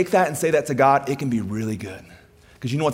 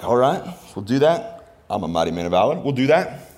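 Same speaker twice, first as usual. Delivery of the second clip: Gideon agreeing. Acted. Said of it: "Gideon's like".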